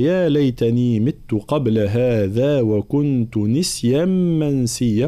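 slow tajweed chant, long held vowels; Quran recitation. Acted. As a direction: recite the verse in measured chant. (ترتيل قرآني)

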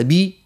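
بي said with a full clear i vowel; pure kasra. Shown as a demonstration. Teacher shows the correct kasra on بي, full and clear. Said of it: "الكسرة نحبوها خالصة".

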